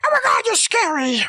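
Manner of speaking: high, mock-frightened exclamation; acted fright. Scrooge seeing the goblin ghost, mock fright. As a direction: play startled, pitch jumping up.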